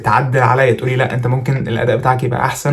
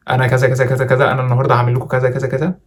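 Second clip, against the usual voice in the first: mock stiff recital on one note; statue-stiff presenter. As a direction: parody a frozen, monotone presenter. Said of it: "صنم حرفيًا".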